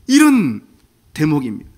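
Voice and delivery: normal talking voice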